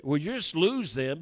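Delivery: mildly heated retort; retold anger. Team leader to a reluctant newcomer, mildly angry. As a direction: imitate a leader getting angry. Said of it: "he got angry".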